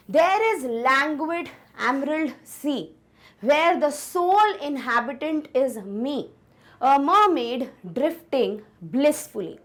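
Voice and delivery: very slow, dreamy recitation of the verse; slow poem reading. Shown as a demonstration. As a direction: read each line slowly, letting it drift. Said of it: "ध्यान से पढ़ते हैं".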